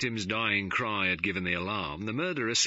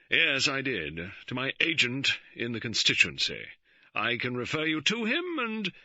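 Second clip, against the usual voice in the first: cold; 6 semitones higher, 3 dB louder than usual. A narrator's reading. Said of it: "George said coldly".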